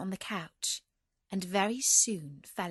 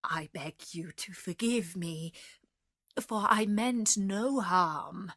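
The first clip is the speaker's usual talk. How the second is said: pleading. Acted. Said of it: "he pleaded".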